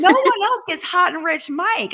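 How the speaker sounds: giggling out the joke; laughing. Real, not acted. Joking with Mike about the money, laughing.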